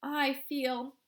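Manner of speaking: put-on high, slow, gasping girl's voice; gasped. A narrator's reading. Girl gasping as she swells into a blueberry. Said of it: "gasped Violet".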